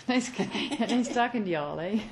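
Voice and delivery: laughing through a mock Canadian y'all, eh. Real, not acted. Wife signing off to listeners, laughing at the joke. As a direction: giggle out the goodbye.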